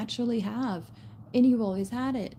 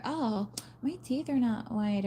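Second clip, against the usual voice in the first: mock whiny girl; 3 semitones higher than usual. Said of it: "Mean Girls scene girls degrading themselves".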